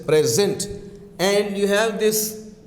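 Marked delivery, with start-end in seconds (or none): 0.0-0.7 "present" in distinct syllables, pitched low; "present" pronounced deliberately to mark its stress; stress demo. Shown as a demonstration. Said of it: "here you get that stress".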